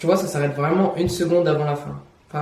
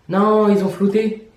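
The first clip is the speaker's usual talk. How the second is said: drawn-out, higher cry of disappointment; dismayed exclamation; 5 semitones higher, 4 dB louder, slower than usual. Real, not acted. Vlogger finding the street image blurred, dismayed exclamation. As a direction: stretch out the no in dismay.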